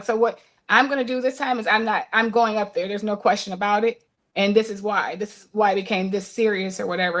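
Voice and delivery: retold calm, firm parental explanation. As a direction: explain it evenly, keeping a touch of restraint. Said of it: "try to say it in a calm voice".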